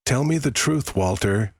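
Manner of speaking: high-pitched, steady demand for the truth; trembling demand. A narrator's reading. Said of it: "her voice steady but trembling".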